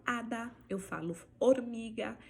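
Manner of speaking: hada and hormiga with no H sound; silent H. Shown as a demonstration. Teacher modeling silent H words. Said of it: "ela não tem som".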